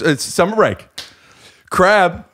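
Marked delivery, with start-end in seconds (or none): 1.7-2.2 crab on holiday voice. Pretend. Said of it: "here's a crab on holiday".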